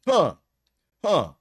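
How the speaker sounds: high, loud, hammed-up taunting; mock preacher rant. Preacher rants at a caller claiming to be the devil, mock fury. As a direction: hurl it at the caller like a street preacher. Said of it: "he'd be like".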